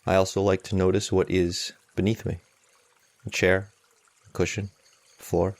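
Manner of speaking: calm meditation guide with long, unhurried pauses; guided meditation. Acted. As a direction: guide them gently, leaving space between phrases.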